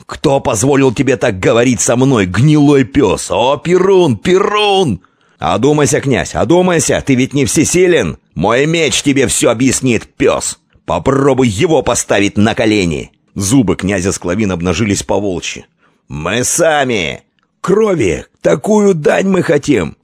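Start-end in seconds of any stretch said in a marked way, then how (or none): 0.1-13.1 high, loud, raging; furious shouting. A narrator's reading. Prince and envoy in furious shouting match. 16.1-20.0 crowd yelling. A narrator's reading. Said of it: "орали Склавины".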